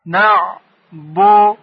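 «نعبدو» very slowly as نع، بو، دو with pauses; each part of «نعبدو» separate and held; syllable by syllable. Shown as a demonstration. Teacher drilling a prayer word, «نعبدو» syllable by syllable.

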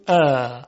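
"ا" held open and long; unobstructed long vowel. Shown as a demonstration. Teacher showing air flows freely, "ا" drawn out. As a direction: let "ا" flow out without any catch.

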